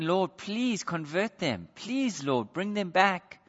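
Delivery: soft, drawn-out plea; pleading. Acted. Parent praying for children away from the Lord, pleading. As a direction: plead gently, leaning on each please. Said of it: "you've been pleading and saying".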